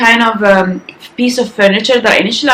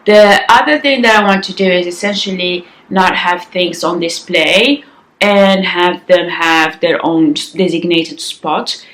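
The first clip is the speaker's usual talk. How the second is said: morning rasp in the voice; raspy voice. Real, not acted. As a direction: talk through a raspy morning voice. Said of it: "I always have a raspy voice in the morning".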